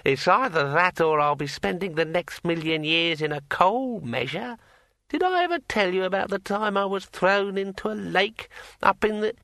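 like a finger round a wine glass rim; ringing metallic sword voice. A narrator's reading. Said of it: "in a voice like the sound of a finger dragged".

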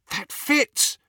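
high-pitched gasp of realisation. A narrator's reading. Hermione putting the clues together, gasped. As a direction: gasp it as it clicks. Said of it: "gasped Hermione".

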